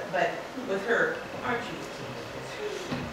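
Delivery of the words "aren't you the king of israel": higher mocking question; sarcastic taunt. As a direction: needle him with sarcasm. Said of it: "there's car-, sarcasm in it".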